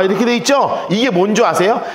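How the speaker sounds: ordinary talk, nothing marked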